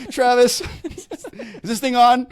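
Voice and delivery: very loud, high holler through laughter; mock calling out. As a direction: call out for help in jest, laughing. Jokingly calls out for the husband.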